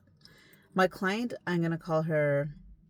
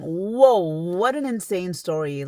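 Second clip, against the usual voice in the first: shocked; 3 semitones higher, 8 dB louder, slower than usual. Retold or imitated. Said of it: "So I'm thinking".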